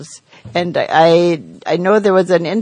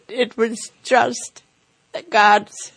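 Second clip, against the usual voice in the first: after crying. Real, not acted. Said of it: "sound very teary".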